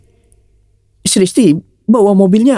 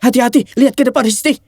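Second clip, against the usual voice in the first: scared passenger; 4 semitones higher than usual. Acted. Passenger frightened by speeding.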